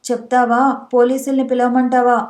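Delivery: usual speaking voice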